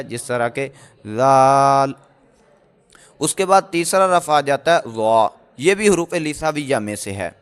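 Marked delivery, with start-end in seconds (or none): 1.2-1.9 ذال with the tongue tip on the upper teeth, soft and without hiss; soft dhal, no whistle. Shown as a demonstration. Teacher demonstrates ذال with no whistling sound. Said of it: "زبان کا سرا ... اندرونی کنارے سے لگانا ہے".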